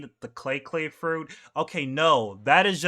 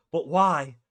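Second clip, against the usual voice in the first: inner doubt; 4 semitones higher than usual. Retold or imitated. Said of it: "in his head, he's, like, thinking".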